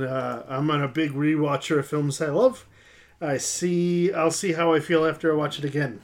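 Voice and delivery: hammed-up, uncertain Cockney accent; attempted Cockney. Host reading a British listener's comment, amateur Cockney accent. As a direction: put on an unpractised Cockney. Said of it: "I'll have to practice the Cockney".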